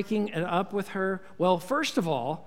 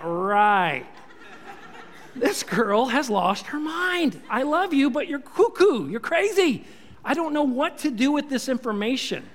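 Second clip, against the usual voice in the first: stunned Joseph; 4 semitones higher than usual. Retold or imitated. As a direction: play Joseph reeling at the news. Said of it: "he'd be like".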